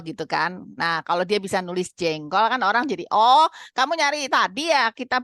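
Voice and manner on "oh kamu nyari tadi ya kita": louder, higher "oh" of understanding; sudden realization. Retold or imitated. People reading the child's written word, suddenly understanding. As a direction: act out someone who has just caught on.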